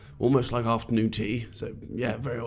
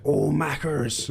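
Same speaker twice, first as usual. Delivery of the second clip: excited wife; 7 semitones higher, much slower than usual. Retold or imitated. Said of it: "she's like".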